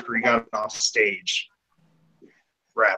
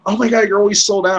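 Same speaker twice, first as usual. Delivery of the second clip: quick, higher mock whine of customers; mock complaint; 8 semitones higher, 4 dB louder, faster than usual. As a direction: imitate customers complaining in a rush.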